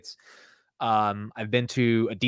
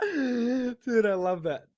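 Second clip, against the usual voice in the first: high voice full of laughter; laughing delight; 11 semitones higher, 4 dB quieter, much slower than usual. Real, not acted. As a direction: say it softly while cracking up. Cracks up at own accent attempt.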